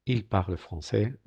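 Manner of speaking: slow IL PARLE FRANÇAIS ending on the vowel; careful, slow French "il parle français"; silent final consonant. Shown as a demonstration. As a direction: model "français" without its s. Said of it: "Veis que no pronunciamos".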